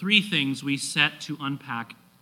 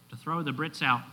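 bad Irish accent; 5 dB quieter than usual. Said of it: "That was a horrible accent".

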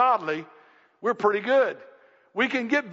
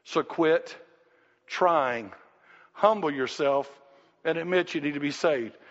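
God tells the striver to quit; God's voice; 4 semitones lower than usual. Retold or imitated. Low, firm voice of God telling the sinner to humble himself. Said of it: "God looks at him and says".

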